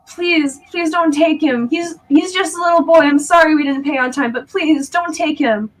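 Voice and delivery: put-on a mother pleading for her little boy. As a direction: beg them not to take the child.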